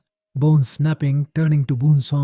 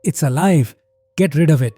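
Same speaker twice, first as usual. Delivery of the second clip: loud, frightened cry; panicked shout; 2 semitones higher, 6 dB louder than usual. Acted. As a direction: yell it in alarm. Mark panics at the creature.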